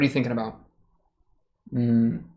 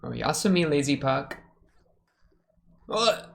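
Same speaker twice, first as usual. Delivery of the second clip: Puck impression; 2 semitones higher than usual. Reacting to the episode, a light mock Puck voice. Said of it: "That's my Puck impression".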